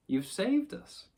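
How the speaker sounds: high, drawn-out admiration; admiring. A narrator's reading. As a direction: gush slowly, lifting high at the end. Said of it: "his turn to be the admiring one".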